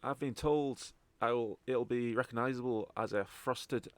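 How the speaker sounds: lightly voiced Scottish contact; Scottish accent. Contact describing the gem to the party, Scottish accent. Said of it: "properly in a Scottish accent".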